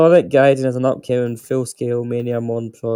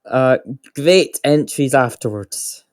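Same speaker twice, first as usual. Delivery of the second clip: sarcastic; 2 semitones higher than usual. Real, not acted. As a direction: stretch out the praise sarcastically. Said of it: "I'm being sarcastic".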